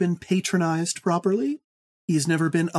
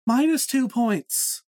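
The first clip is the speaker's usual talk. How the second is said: mock stern; 6 semitones higher, slower than usual. Mock penalty from quizmaster.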